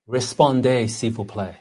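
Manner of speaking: clumsy French accent, falling away at the end; horrible French accent. Shown as a demonstration. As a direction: attempt French with an English speaker's accent. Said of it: "my horrible French accent".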